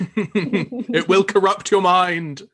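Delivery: drawn-out creepy warning; spooky slow warning. Acted.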